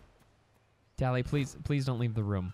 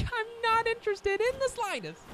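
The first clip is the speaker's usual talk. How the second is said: mock disdain. Mock disgust at the redwoods.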